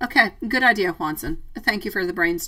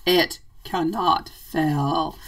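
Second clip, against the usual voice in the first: slow, drawn-out mock wizard line; a first, light try at a grave old wizard; Gandalf voice; 2 semitones lower, much slower than usual. Slow mock wizard pronouncement to the viewer. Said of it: "I sound like the Lord of the Rings".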